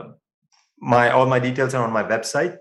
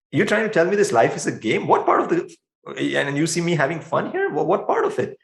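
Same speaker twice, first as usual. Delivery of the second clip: higher-pitched, exasperated questioning; acted incredulous protest; 4 semitones higher than usual. Griever challenges the idea that life is a game, incredulous. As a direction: voice someone who can't believe they're being told this.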